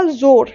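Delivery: जोर with extra force on its first part, जो; stress at start. Shown as a demonstration. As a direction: lean hard on the जो of जोर. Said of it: "एक पे मैं ज़्यादा force दे रही हूँ". (जोर के पहले हिस्से जो पर ज़्यादा बल)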